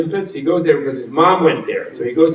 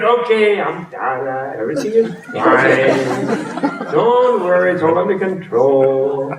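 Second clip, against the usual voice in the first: soothing reassurance; slower than usual. Retold or imitated. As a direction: settle the frightened little ones. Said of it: "So I said".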